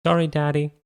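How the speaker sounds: put-on high, loud little boy apology; sheepish child. A narrator's reading. Son apologizing to dad over the pajamas. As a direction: say it like a kid caught out. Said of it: "classic "oops" expression".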